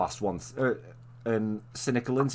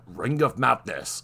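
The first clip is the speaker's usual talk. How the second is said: narrator reading title; slower than usual. Retold or imitated. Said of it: "he'd read out the title".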